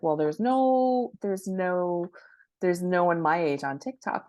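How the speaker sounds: put-on a doubtful elderly author, protesting; quoting the author. Author quoting her elderly client's doubt, a mock protest. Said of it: "And she's like".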